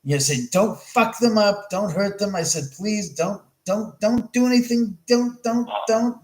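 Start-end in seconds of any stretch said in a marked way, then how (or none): 0.5-2.4 slower, higher mock cursing at the spirits; warning the spirits, a bit raised and slowed; retold cursing. Retelling his warning to the spirits, mildly heated. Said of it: "I was cursing a blue streak". 2.8-6.2 higher, pleading don'ts; begging the spirits to stop, voice up; retold pleading. Telling the spirits not to hurt the crew, raised pleading. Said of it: "I was cursing a blue streak".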